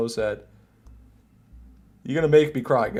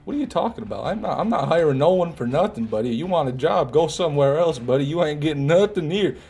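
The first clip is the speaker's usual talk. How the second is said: higher, scornful brush-off of a beggar; mock angry refusal; 5 semitones higher than usual. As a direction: play the gruff boss shooing him away. Voicing Fish refusing a beggar.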